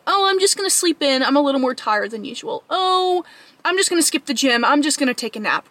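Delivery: whiny little voice begging off; mock self-kind wheedling; baby voice. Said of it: "the same voice that says".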